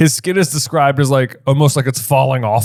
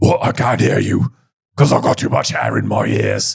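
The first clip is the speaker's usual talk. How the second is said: very deep, rough, gruff creature voice, very low. Retrying a voice after going too far into tire salesman, creature voice. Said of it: "Better creature".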